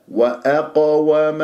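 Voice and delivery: وأقوم slow, qaf thick and bounced; correct qalqala. Shown as a demonstration. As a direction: stretch وأقوم with a full echoing qaf. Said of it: "لا، وأ".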